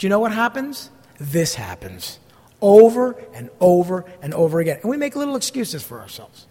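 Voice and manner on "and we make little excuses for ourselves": unvoiced whisper, half to himself; whispered aside. Real, not acted. Pastor admitting to the congregation how people excuse themselves, whispered. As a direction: confide it like a guilty secret. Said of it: "whispered aside".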